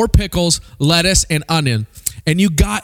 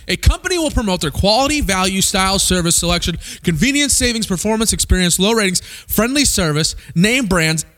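rapid ad pitch. Retold or imitated. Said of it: "one speaker said it just like this".

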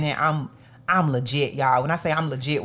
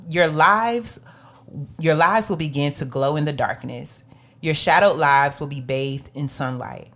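scripture reading. Acted. Reads scripture aloud.

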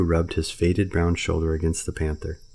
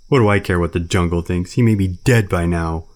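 loud, anguished bear; despairing bear; 6 dB louder than usual. Acted. Baloo answering Bagheera in despair, loud bear. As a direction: cry out the bear's despair.

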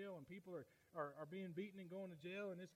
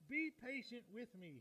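slow, higher-pitched plea; pleading; 6 semitones higher, 3 dB louder, slower than usual. Acted. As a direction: beg gently and slowly. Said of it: "he begged".

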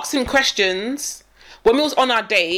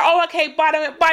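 imitated date; 5 semitones higher than usual. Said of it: "He's like".

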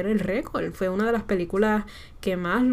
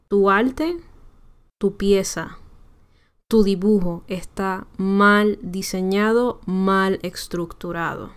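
firm and correct; slower than usual. Shown as a demonstration. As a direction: spell it out firmly like a lesson. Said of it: "aprendan a decir correctamente".

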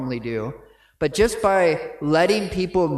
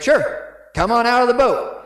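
breezy Jesus; 9 semitones higher, 6 dB louder than usual. Retold or imitated. Jesus inviting Peter onto water.

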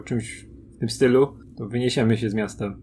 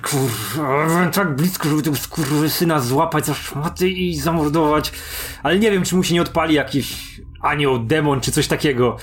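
mildly acted exasperation, pitch climbing; frustrated outburst; 4 semitones higher than usual. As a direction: vent in character, cursing in frustration. Acted in-character outburst, swearing.

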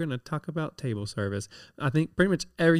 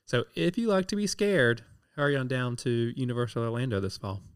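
peppy radio ad read; ad announcer; 3 semitones higher than usual. Pretend. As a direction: sell it like a radio spot. Mock radio ad pitch.

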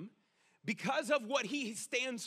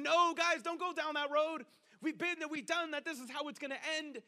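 urgent warning; 5 semitones higher than usual. Acted. Acts out warning people going wrong.

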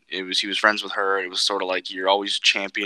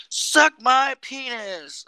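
put-on very high, very slow childish taunt; bratty kid; 4 dB louder, much slower than usual. Imitating the kid taunting grown-ups, high slow child taunt. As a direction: drag it out like a cheeky kid. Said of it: "started being like".

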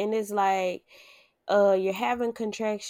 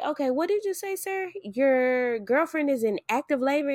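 higher, startled double take; surprised receptionist; 5 semitones higher than usual. Retold or imitated. Front desk lady realizing the girlfriend is in labor, surprised. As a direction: suddenly realize it is urgent. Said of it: "And she was like".

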